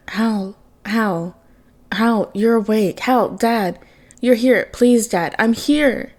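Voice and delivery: son pleading to his waking father, a breaking cry; broken relieved cry. Acted. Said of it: "relief in a broken cry".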